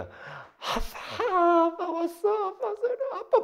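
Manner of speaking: put-on very high, drawn-out child's squeal; hammed-up little child welcoming Dad home; child greeting dad. Preacher playing Jeongmin greeting dad, child's voice. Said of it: "정민이가".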